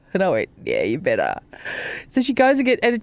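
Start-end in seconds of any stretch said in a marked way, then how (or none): 0.6-1.4 curt retort. Retold or imitated. Her curt reply to receptionist.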